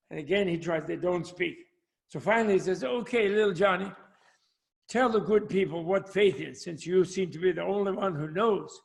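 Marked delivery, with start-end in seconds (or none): 2.8-8.8 lightly voiced Southern preacher; American Southern accent. Preacher inviting the boy in the front row, lightly Southern accent. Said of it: "going into an American Southern accent".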